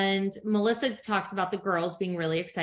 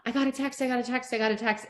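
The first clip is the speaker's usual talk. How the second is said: excited; 4 semitones higher, faster than usual. Retold or imitated.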